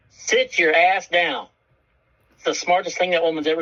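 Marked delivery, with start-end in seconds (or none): 0.1-1.5 firm order. Retold or imitated. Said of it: "And she said".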